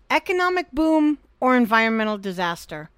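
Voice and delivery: measured, deliberate news-style delivery; headline read. Acted. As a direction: announce the next story. Reads next headline.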